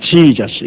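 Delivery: 지저스 with a stretched first syllable, JEE-jus; American pronunciation. Shown as a demonstration. Preacher mocking foreign versions of the name, drawn-out English 지저스. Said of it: "미국말은 지저스".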